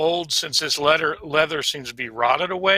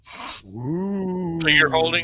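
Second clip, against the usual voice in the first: lizard folk voice; much slower than usual. Acted. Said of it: "That was a great lizard folk voice".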